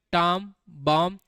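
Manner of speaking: टॉम and बॉम्ब said slowly, apart; slow drill words. Shown as a demonstration. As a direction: spell each word out slowly. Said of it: "तो क्या है बेटा". (धीरे धीरे शब्द बोलना)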